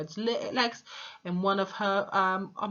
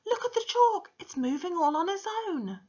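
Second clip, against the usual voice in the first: put-on very high, loud, excited scream in a boy's voice; 4 dB louder than usual. A narrator's reading. Boy pointing at the moving chalk, high screaming. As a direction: shriek it in alarm at the board. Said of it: "started pointing excitedly ... and screaming".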